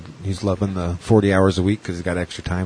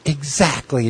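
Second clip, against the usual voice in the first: higher, earnest agreement; mock lady's voice; 6 semitones higher, slower than usual. The disabled lady agreeing with the comedian, earnest and higher. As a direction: lightly imitate the eager fan. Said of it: "And she's like".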